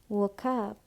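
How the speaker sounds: "woke up" joined as "wo-kup"; "woke up" with no gap between the words; linked sounds. Shown as a demonstration. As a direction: carry the k of "woke" onto "up". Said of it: "Nối âm".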